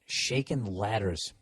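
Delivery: put-on slow, drawn-out Boston accent. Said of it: "even if the accent".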